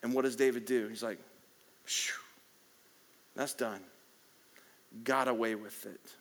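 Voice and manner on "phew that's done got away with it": relieved sigh. Retold or imitated. David relieved, acted quote.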